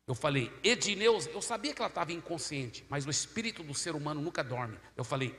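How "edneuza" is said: raised, higher calling of a name; calling out aloud. Retold or imitated. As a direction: call the name for all to hear. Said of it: "bem alto pra todo mundo poder ouvir". (chamando em voz alta)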